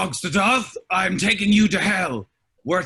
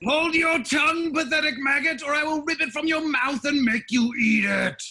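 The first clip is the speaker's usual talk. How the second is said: much higher, strained threat; furious demon; 8 semitones higher than usual. Acted. Demon father cutting off Alaric's speech, furious high threat. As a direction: scream him into silence.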